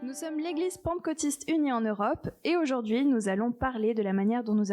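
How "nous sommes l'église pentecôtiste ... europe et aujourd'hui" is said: usual speaking voice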